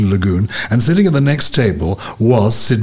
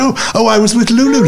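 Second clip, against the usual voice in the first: light, higher-pitched retold name-drop; bashful name-drop; 11 semitones higher than usual. Host retelling his hello to Sidney Poitier, bashful name-drop. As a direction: play up a casual name-drop, half laughing.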